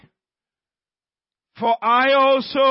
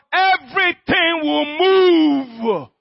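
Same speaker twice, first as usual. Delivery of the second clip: higher, drawn-out proclamation; rousing preaching climax; 4 semitones higher, slower than usual. Real, not acted. Preacher assuring the congregation everything will move, rousing proclamation. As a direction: stretch it out as a promise.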